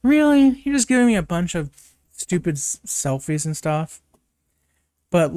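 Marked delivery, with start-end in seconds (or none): 0.0-4.0 exasperated disbelief. Retold or imitated. Jimmy scoffs at the selfies, incredulous then deflating. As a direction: start high in disbelief, let it deflate. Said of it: "he's just like".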